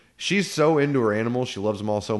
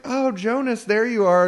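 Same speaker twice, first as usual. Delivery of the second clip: sweet call; 11 semitones higher than usual. Retold or imitated. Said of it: "she's like".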